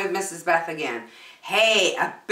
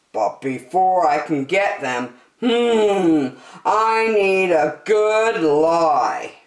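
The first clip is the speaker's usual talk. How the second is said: a touch of a sneaky plotting voice; whisper-plot it like a little villain, not too big; scheming pug; 5 dB louder than usual. Acted. Pig plotting to steal treats from the closet, mildly sneaky. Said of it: "He said".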